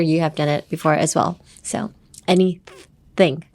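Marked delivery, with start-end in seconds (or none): 1.6-3.4 anything said slowly with a mocking kid's grimace; slow anything, lips pulled like teasing a sibling; mocking kid face. Shown as a demonstration. The teacher shows learners the mocking-sibling face, saying it slowly. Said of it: "that stupid face that kids make when they're trying to mock".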